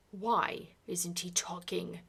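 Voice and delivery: a Duke's loud, slow demand; loud, slow, demanding boom. Acted. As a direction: boom it out at the nurse. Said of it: "he boomed".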